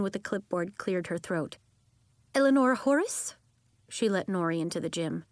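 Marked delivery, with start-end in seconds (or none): 2.3-3.4 higher, louder call. Acted. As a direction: call the name. Official calls a name.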